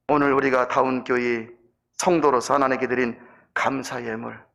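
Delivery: low, measured sermon close; earnest pastoral exhortation, slowing on the key endings; solemn preaching. Real, not acted. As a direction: drop low and give each phrase room.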